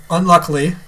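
faintly sarcastic, tossed-off "unluckily". Real, not acted. Husband recounting his missed appointment, mildly sarcastic. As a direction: let "unluckily" carry a touch of irony. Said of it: "I said that kinda sarcastically".

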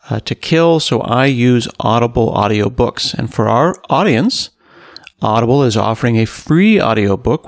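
upbeat, emphatic podcast sponsor read. Acted. Host thanking Audible for supporting the podcast, polished ad read. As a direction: sell it with lilting, punched key words.

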